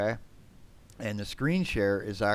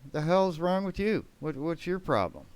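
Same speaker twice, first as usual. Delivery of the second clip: retold angry yell; 9 semitones higher than usual. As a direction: yell it in disbelief. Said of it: "I was like".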